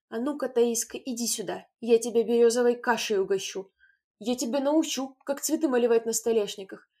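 loud threatening scolding. A narrator's reading. Mother to Taiska, loud threat. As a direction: promise the birch.

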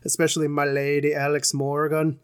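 a light, slowed Irish lilt on my lady; mock Irish accent, only lightly done. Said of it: "I say that with an Irish accent".

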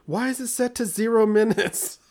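put-on high-pitched indignant kid voice; complaining daughter. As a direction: imitate a child's outraged whine. Daughter's complaint, acted by parent.

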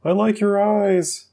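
put-on high, gushing boy voice; hammed-up high Mark. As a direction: stammer out the compliment in a squeaky voice. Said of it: "my Mark voice".

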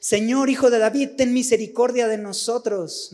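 loud, high cry for mercy, a blind man calling out; mock shout of a beggar calling to Jesus; shouted plea. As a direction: shout it over the crowd to be heard. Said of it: "Su única opción es gritar".

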